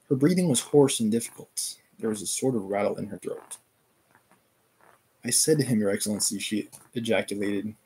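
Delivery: steady read-aloud narration, characters lightly voiced; story narration. Streamer reading Katerina's death scene to chat, steady narration.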